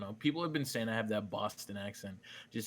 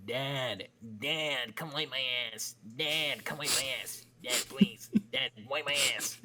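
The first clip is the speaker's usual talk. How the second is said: higher, lightly voiced pleading kid; child calling Dad; 4 semitones higher than usual. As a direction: call out to Dad like a needy child. Child calling dad in retold story.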